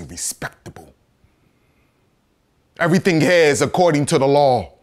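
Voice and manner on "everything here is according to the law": raised, emphatic accusation; impassioned courtroom attack; forceful indictment. Acted. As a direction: drive the charge home.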